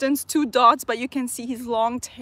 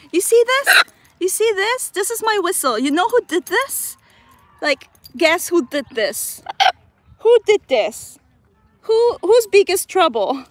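playful scolding; 6 semitones higher, 6 dB louder than usual. Real, not acted. Mock scolding bird over whistle.

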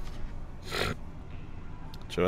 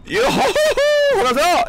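very high, drawn-out gleeful yodel; gleeful whoop; 4 dB louder, slower than usual. Real, not acted. Streamer whooping in delight at the item. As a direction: whoop it out slowly in triumph.

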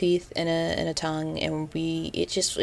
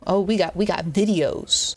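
mock thrilled videos; gleeful at finding videos; excited. Vlogger reacting with delight to videos in replies. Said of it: "I was like".

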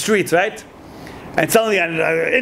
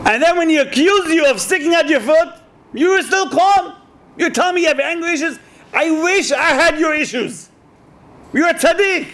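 higher, marvelling admiration; a rabbi marvelling, pitched up, at a student's calm; amazed praise; 6 semitones higher than usual. Retold or imitated. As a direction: gush with wonder at his calm. Rabbi praising the young man.

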